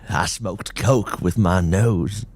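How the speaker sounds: slow, odd dazed voice; dazed drugged man. Acted. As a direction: say it proudly, out of it.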